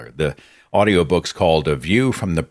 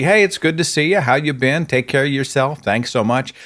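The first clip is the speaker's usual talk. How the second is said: friendly greeting; 5 semitones higher than usual. Retold or imitated. Friend's cheerful greeting retold.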